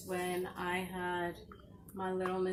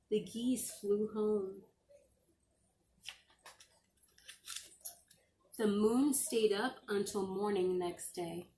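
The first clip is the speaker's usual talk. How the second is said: gentle storybook read-aloud; reading to children. Acted. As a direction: read it like a bedtime story to the class. Teacher reading a picture book aloud.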